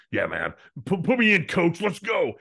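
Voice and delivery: high, loud hyped-up cheer, mocking the ad; mock pumped-up fan. Mocking the pep-talk ad to his cohost, hyped-up yell. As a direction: sarcastically fire yourself up off the couch.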